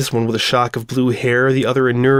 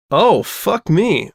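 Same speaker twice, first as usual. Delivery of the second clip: annoyed groan; 7 semitones higher, much slower than usual. Real, not acted. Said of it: "I need to fix that".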